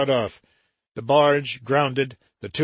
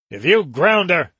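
raised, harsh threat; savage threat; 4 semitones higher, 5 dB louder than usual. Acted. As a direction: snarl it at the crew. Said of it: "Joram said savagely".

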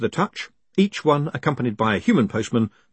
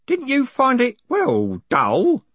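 put-on much higher, quavering old man; 13 semitones higher, 3 dB louder, slower than usual. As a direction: raise the pitch for an old postman. Groat voiced high.

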